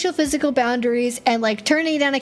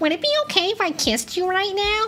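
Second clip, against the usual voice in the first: exaggerated high, nerdy put-on character voice; 8 semitones higher than usual. The speaker redoes the line asking to kiss someone: nerd voice. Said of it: "That's the nerd voice".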